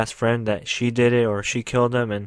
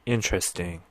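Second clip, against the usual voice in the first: smoking a cigarette; 5 semitones lower, 5 dB quieter than usual. Retold or imitated. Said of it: "supposed to be him smoking a cigarette".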